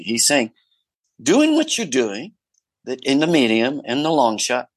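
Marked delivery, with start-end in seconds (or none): 1.2-4.7 an Aussie director giving friendly notes, half mimicked; Aussie director impression. Director coaching the actor about close-ups, in a light Aussie accent. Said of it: "he might have been an Aussie".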